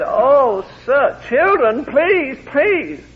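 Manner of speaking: high, slow, pleading cry of dismay; flustered plea. Retold or imitated. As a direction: beg the children to stop, mortified. Mother nearly collapsed, pleading.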